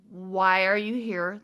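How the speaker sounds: slow, measured question with rising end; polite questioning. Retold or imitated. Teller asking aliens their purpose, slow careful politeness. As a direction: ask it with careful, drawn-out politeness. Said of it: "my most polite way to put it".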